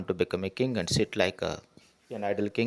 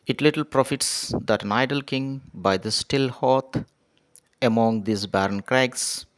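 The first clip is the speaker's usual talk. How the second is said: measured, slightly raised reading of verse; poem recitation; 3 dB louder than usual. Acted. Teacher reading poem aloud to students, measured recitation.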